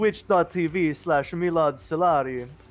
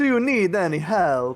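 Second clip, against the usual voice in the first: put-on Transylvanian vampire accent; 4 dB louder than usual. Voicing a guard who asks a player if they need help: Transylvanian accent. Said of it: "retcon this guy's accent so that he sounds Transylvanian".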